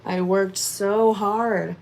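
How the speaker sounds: slow, halting, choked-up words about her hard work; emotional. Real, not acted. Telling viewers why she quit real estate, slow and emotional. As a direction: let it catch in the throat, slowly. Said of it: "it makes me really emotional when I talk about it".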